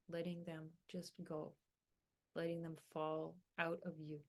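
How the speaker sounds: unhurried meditation guidance with long pauses; guided meditation. Acted. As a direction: gently lead them through breathing and grounding, phrase by phrase.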